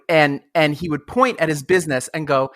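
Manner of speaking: ordinary talk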